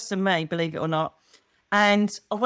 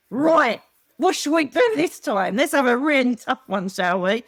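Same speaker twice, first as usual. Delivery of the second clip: higher, louder mock enthusiasm; eager planning; 4 semitones higher, 3 dB louder than usual. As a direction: play souls keenly plotting the next adventure. Acts souls eagerly planning next life.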